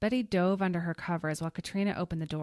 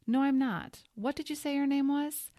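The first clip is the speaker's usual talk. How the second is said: higher and louder, wary; suspicious snap; 9 semitones higher, 5 dB louder than usual. Acted. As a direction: demand it suspiciously. Suspicious woman snaps.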